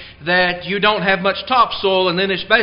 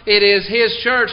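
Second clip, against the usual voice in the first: HIS raised and pressed; emphasis on HIS; 2 semitones higher, 4 dB louder than usual. Real, not acted. Preacher restating his first point to the congregation, emphatic on HIS. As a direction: lean on HIS before church. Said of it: "I'm putting emphasis on certain words".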